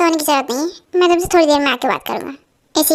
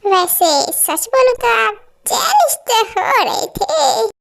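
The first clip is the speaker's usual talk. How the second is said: teasing laugh; 4 semitones higher, much slower than usual. Acted. Teasing him about jealousy.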